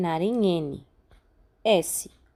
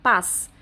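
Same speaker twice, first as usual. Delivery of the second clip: Paz alone, punched louder; strong stressed syllable; 5 dB louder than usual. Shown as a demonstration. Teacher picks out the strongest syllable, Paz said forcefully. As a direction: isolate Paz as the strong syllable, hit it hard. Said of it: "qual é a sílaba mais forte".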